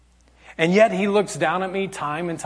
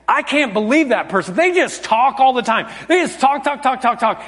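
higher-pitched, griping imitation; mock complaining; 6 semitones higher than usual. Preacher acting out his own judging of chatty people, mock complaining. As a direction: complain in mild exasperation.

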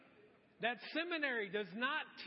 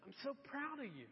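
soft, tender praise, voicing God; gently, as a loving father; God's tender voice; 2 semitones higher, 5 dB quieter than usual. Preacher voicing God softly to himself, tender. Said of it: "God's saying".

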